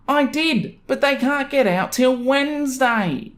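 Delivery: high, whiny mock neighbor voice; pleading neighbor, high and drawn out. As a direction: whine it like a spoiled neighbor. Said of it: "something like this".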